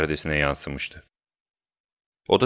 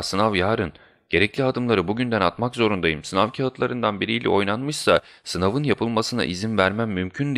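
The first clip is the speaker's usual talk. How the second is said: higher-pitched, worried pleading; distraught, bewildered; 4 semitones higher than usual. Acted. Guide begging Holmes not to leave before the exam, distraught. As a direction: plead with mild dismay, voice lifted. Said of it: "Rehberimiz şaşkınlık içinde ve perişan bir halde".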